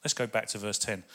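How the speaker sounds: breathy hushed aside; whisper. Real, not acted. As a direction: whisper it in wonder. Whispered aside while reading.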